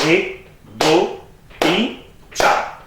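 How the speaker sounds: slow, even count; slow single-tempo counting. Shown as a demonstration. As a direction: lay the count out slowly. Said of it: "पहले में कितना था?". (ठा लय में धीमी गिनती)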